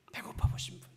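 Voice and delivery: whispered question. Real, not acted. Preacher whispering to the congregation, whisper. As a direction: ask the crowd in a whisper. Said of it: "repeated question, whispered".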